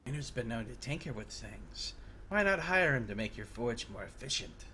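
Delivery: low, lightly scratchy character voice; a hint of a bloke who can't speak up. Player answering the forge worker, lightly scratchy bloke voice. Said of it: "sound like an Irish bloke".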